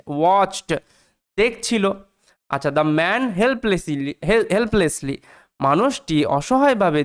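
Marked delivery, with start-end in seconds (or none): 0.1-0.8 watched as one syllable, "wacht"; silent E, sounded ending. Shown as a demonstration. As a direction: close watched on a light stop, no E. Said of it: "ডি এর উচ্চারণ হচ্ছে".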